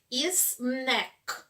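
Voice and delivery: snack said slowly with a short open e; careful snack. Shown as a demonstration. Teacher modelling snack slowly for pupils. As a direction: stretch snack out, short e vowel. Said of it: "não falem snake".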